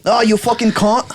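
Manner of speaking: mock Australian swearing; Australian accent. Friend takes his turn at Australian, mock Australian accent. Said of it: "Australian, go".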